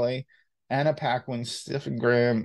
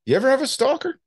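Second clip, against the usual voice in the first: mock interviewer; 13 semitones higher, 3 dB louder, faster than usual. Playful interviewer question.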